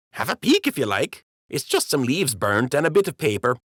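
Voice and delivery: high-pitched, downplaying the trouble; high dockhand voice making light of a fire; sheepish dockhand. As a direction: make it sound small and harmless, up high.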